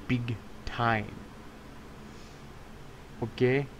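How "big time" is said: slow, half-hearted cartoon-kid voice; reluctant Haji impression. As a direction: give in and do the line grudgingly. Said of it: "Do Haji!".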